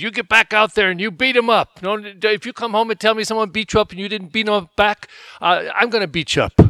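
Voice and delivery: stern dad. Retold or imitated. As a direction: lay down the law to your son. Dad orders son to fight.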